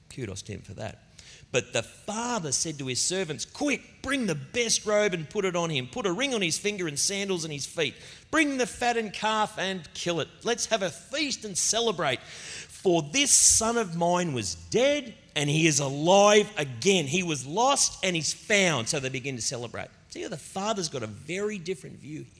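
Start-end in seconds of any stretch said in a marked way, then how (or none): 3.5-17.1 高声欢喜地下令; 像父亲喜出望外，大声吩咐仆人; excited father. Retold or imitated. Father orders a feast for son. 17.1-18.9 提高音调，慢慢地宣告“lost”; 父亲喜悦地宣布“He was lost and he's found”; joyful proclamation. Retold or imitated. Father rejoices over returned son.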